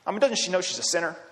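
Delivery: a Pharisee mocking the woman under his breath. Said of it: "the kind of voice of mockery".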